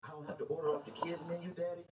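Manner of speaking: put-on a child thrilled to order off the adult menu; excited daughter. Daughter asks dad about the kids menu, eagerly. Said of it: "She said".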